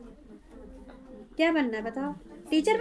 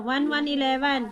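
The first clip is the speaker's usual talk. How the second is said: slow drill; slower than usual. Shown as a demonstration. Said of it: "दिमाग में बिठाओ".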